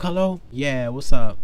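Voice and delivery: lightly acted casual phone greeting; nonchalant. Girlfriend on the phone to him, nonchalant. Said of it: "All nonchalant".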